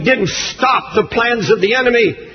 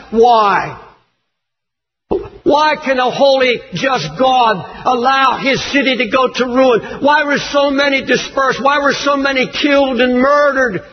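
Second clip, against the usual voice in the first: shouting protest. Acted. Preacher voices imagined protest.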